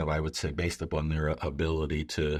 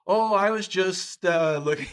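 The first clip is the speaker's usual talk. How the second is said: put-on caught kid voice; 12 semitones higher, 5 dB louder than usual. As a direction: play innocent, caught red-handed. Kid caught sneaking snacks, acts innocent.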